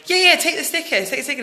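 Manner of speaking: high, urgent prompting in imitation; retold eager urging. Urging a mate to take the sticker, retold eagerly.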